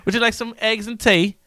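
put-on high, polite British accent; mock British host. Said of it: "I guess you're British today".

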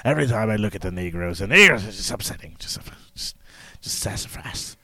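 put-on low, muttering gruff English old-timer; gruff old English codger, low and halting; gruff old Englishman. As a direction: grumble quietly like an old English man, trailing into near-whisper. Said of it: "I do the old, the old ... the gruff".

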